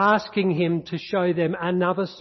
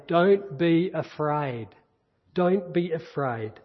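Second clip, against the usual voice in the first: gentle; slower than usual. Acted. Preacher voicing Jesus, slow.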